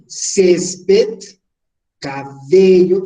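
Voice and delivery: césped on CÉS, cabello on BE, both punched; césped, cabello with strong second-last syllables; penultimate stress. Shown as a demonstration. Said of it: "la entonación va aquí".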